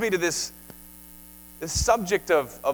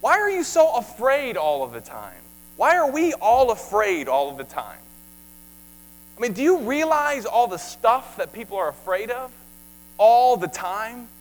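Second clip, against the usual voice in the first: rising, louder rebuke; preaching at full force; 4 semitones higher, 5 dB louder than usual. Acted. Preacher challenging a fearful church, higher and louder. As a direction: challenge them, voice climbing.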